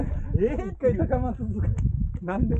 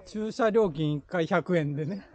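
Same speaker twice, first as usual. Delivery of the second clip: 駐車料金 read slowly with rising 料; 駐車料金一回百円 drawn out like reading a sign. Shown as a demonstration.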